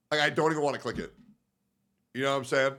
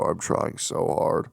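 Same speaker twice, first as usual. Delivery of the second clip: slow whispered version of the plea; 7 semitones lower, slower than usual. Pretend. Streamer repeating his plea, dropping to a whisper. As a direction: let the plea collapse into a breath. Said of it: "My anxiety's through the roof".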